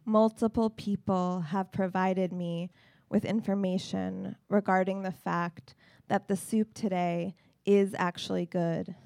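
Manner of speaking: deliberate, formal recital with weighty pauses; deadpan poetry reading. Acted. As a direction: deliver a mock-solemn statement to an audience. Reads wry poem aloud.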